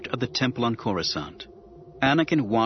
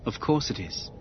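calm; 4 dB quieter than usual. A narrator's reading. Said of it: "Obi-Wan said equably".

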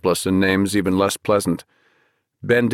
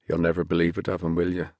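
sad; 2 semitones lower, 6 dB quieter, faster than usual. Acted. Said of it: "looked at him sadly".

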